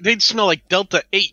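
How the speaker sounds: laughing. Real, not acted. Joking through laughter.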